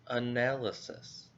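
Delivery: teacher models analysis; model word. Shown as a demonstration. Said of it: "we'll be looking at the word analysis".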